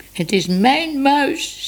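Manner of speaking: high, drawn-out tearful protest; sobbing child. A narrator's reading. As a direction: whimper it slowly like an upset little girl. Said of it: "snikte ze".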